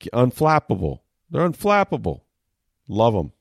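admiring pundit, lightly acted; mock admiration. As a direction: gush like an impressed fan. Voicing admirers of winning coach.

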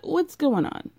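high, puzzled question; confused asking. Retold or imitated. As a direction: ask it up high, bewildered. Everyone asking, first take.

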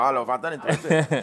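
fast, laughing exasperation; laughing mock frustration at being ignored; exasperated mock outburst. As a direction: throw up your hands laughing. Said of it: "man bara".

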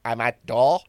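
Bolton delivery driver voice; Bolton accent. Retold or imitated. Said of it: "That's a Bolton accent, that".

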